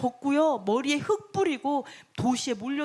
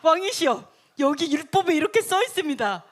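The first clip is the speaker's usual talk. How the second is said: raised, louder formal proclamation; law recitation; 3 semitones higher, 5 dB louder than usual. Acted. Officials read the law aloud to the king, proclaiming. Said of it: "율법 낭독하면서".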